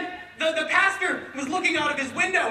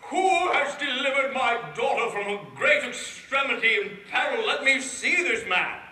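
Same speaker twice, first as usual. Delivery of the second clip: king. Acted. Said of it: "he said".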